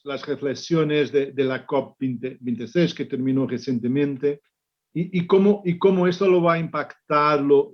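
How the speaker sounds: Spanish with a Portuguese accent; Portuguese speaker talking Spanish; portuñol. Real, not acted. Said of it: "mi portuñol".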